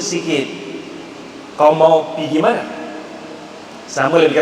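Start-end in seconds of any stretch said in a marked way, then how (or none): 1.5-2.6 Tawau slang. Shown as a demonstration. Lecturer showing the Tawau slang, Tawau accent. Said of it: "Tawau pula".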